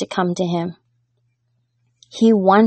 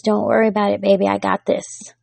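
tender reassurance. Pretend. Parent comforting a hurting child.

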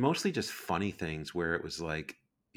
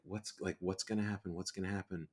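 panicky, much softer worried muttering; freaking out; 7 dB quieter than usual. Retold or imitated. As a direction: fret under your breath, half panicking. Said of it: "I'm just freaking out".

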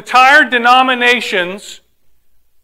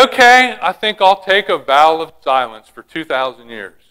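sinking into a lower pitch by the end; mock voice of God; 5 semitones lower than usual. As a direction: playfully voice God deciding something, pitch dropping away. Mock quote of God going silent.

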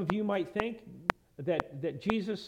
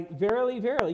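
"verily, verily" hit louder, firmly; very emphatic; 4 dB louder than usual. Retold or imitated. Jesus stressing a truth to his listeners, very emphatic. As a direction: punch each "verily" with added volume. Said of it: "again, very emphatic".

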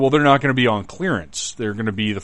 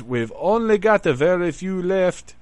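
mock Southern store clerk twang; vague Southern accent; 9 semitones higher than usual. Retelling the store lady's reply, in a put-on Southern accent. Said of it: "I don't know what kind of accent I just did".

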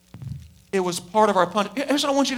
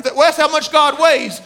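real laughter at his own joke; laughing; 6 semitones higher, 5 dB louder than usual. Real, not acted. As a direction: laugh breaks through the line. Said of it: "That's hilarious".

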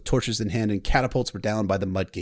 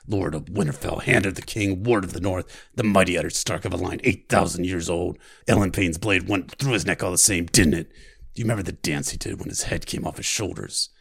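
practiced Hound voice; 3 semitones lower than usual. Acted. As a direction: relish every cruel word. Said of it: "I practiced the voice".

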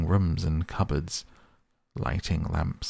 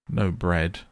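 groaning; 4 dB louder than usual. Acted. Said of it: "groaned the Mole".

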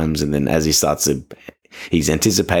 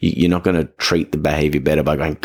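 normal talking voice

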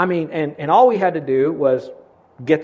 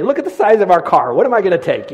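laughing; 2 semitones higher, 6 dB louder than usual. Retold or imitated. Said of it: "by then I'm just laughing".

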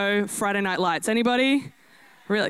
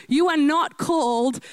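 preaching shout; 3 semitones higher than usual. Real, not acted. Preaching climax to congregation.

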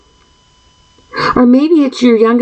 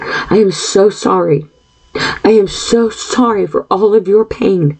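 sincere condolence; slower than usual. Real, not acted. Consoling grieving listeners.

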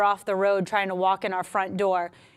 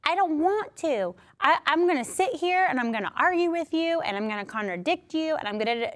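put-on whiny child; 4 semitones higher than usual. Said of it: "like little kids will do".

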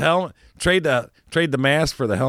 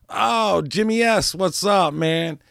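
surprised greeting; 8 semitones higher, slower than usual. Retold or imitated. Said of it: "And I go".

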